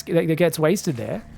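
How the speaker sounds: ordinary talk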